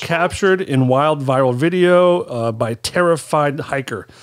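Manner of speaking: slow, deliberate news headline read. Pretend. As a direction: read it like an anchor, slowly. Reading a news headline aloud.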